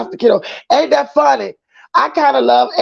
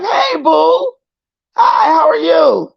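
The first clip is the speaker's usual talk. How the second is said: excited greeting; 4 semitones higher, slower than usual. Real, not acted. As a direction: call out hey boo like spotting a friend. Excited greeting of new viewer.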